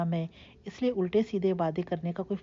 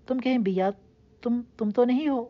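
higher, louder, hopeful; eager, urgent question; 6 semitones higher, 5 dB louder than usual. A narrator's reading. Caller urgently asks if it is her. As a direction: ask quickly, hardly believing. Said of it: "تیزی سے بول پڑا".

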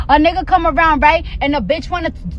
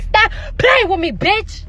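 higher-pitched acted telling-off; confrontational; 4 semitones higher, slower than usual. Speaker telling off a friend in front of the man, indignant. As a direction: tell her off, pitched up.

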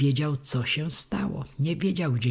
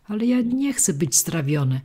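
a touch louder and higher protest; mild cry; 4 semitones higher, 3 dB louder than usual. Acted. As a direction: cry out in protest, lightly acted. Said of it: "krzyknął Pinokio".

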